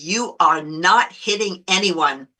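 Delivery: slow, measured imitation of a stern dad; slow, lightly voiced firm warning; firm command. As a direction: lay down the rule word by word. Dad stops her from slapping.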